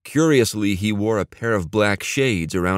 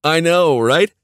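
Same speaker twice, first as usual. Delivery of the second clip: high, loud, delighted burst; beaming excitement; 8 semitones higher, 5 dB louder than usual. A narrator's reading. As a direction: share the thrill, beaming. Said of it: "Neil beamed".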